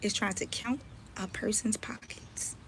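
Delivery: whispered jab at rival; pointed whisper. Real, not acted. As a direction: drop to a whisper for the punchline.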